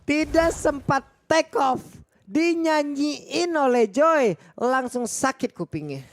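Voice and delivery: high, excited play-by-play yell; excited shout. Real, not acted. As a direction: shout the fight like it's the climax. Hype call of team fight. (teriakan komentator yang bersemangat)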